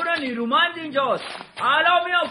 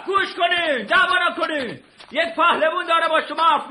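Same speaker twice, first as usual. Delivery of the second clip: calling out; 3 semitones higher than usual. Acted. Hero shouting at the men to stop fighting. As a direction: raise the voice to stop the brawl.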